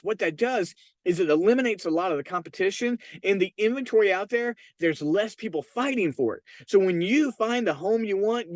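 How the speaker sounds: upbeat, confident pitch to home buyers; convinced sales pitch. Shown as a demonstration. Agent pitching buyers, with conviction and excitement. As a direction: sell it like you believe it. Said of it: "Let me give you an example".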